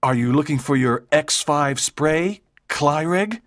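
calm, controlled character voice. A narrator's reading. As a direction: ask it calmly, unfazed. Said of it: "asked Walter calmly".

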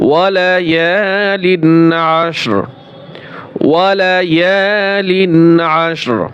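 ওয়ালায়ালিন with the লিন held long; slow recitation demo. Shown as a demonstration. Teacher reciting slowly for students. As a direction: stretch লিন, stop on আশর. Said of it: "লাম দুই জের লিন".

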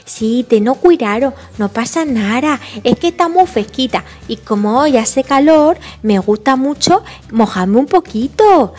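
put-on unworried toddler in baby talk; little George. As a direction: brush it off like a small child. Little George answers the warning.

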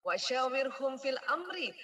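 slow chanted Arabic; Quran recitation. Acted. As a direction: recite it slowly and reverently.

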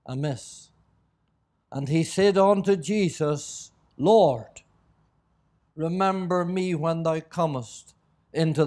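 measured, solemn Bible reading; scripture reading. Acted. Preacher reading the crucifixion to the congregation, solemn scripture reading. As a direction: read it out in deliberate phrases with long pauses.

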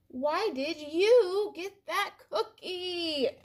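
high, slow, loud with a laugh; a pigeon cackling at the nerve of it; laughing question. Acted. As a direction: ask it half-laughing in disbelief. Pigeon asks duckling, suspicious.

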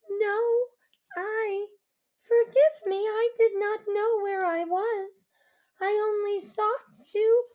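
put-on scared girl pleading; frightened girl. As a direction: beg forgiveness, flustered. The girl apologising in fear.

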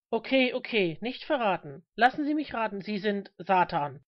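mildly mocking guess, slowing at the end; understated mockery, coming down in pitch at the end; unimpressed, mocking. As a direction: play along with light scorn. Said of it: "völlig unbeeindruckt, ja sogar spöttisch".

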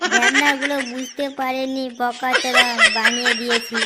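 chuckling through the words, pleased with himself; gloating laugh. Acted. Swindler chuckling to himself over fooled neighbours. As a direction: laugh as you boast of the con.

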